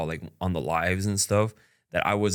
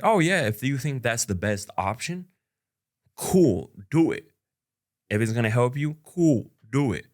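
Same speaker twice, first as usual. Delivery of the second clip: easygoing go-ahead; 4 semitones higher than usual. Retold or imitated. To girlfriend about saving money, breezy encouraging. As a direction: brightly wave her plan through. Retells supporting girlfriend's plan.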